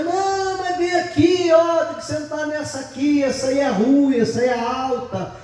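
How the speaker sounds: high pleading grandma voice; grandma begging her grandson to switch tables, high and pleading. Retold or imitated. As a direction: coax the boy over like a fussing granny. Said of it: "E a avó dizia".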